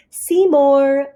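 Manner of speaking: high, loud call across a room. A narrator's reading. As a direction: call out searching for him. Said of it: "Splat called again".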